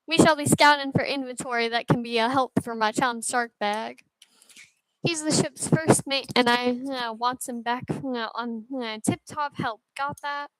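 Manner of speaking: lightly voiced sailor with hesitant verbal tics; hint of a cartoon captain, tripping over tics. Captain explaining the search to the crew, lightly voiced character. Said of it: "Why does he talk like that?".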